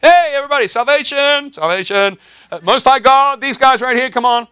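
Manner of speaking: put-on very high, loud shrill girl crying out; high, loud mocking girl voice; shrieking slave girl. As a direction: squeal it out like the pestering girl. Preacher voicing the slave girl.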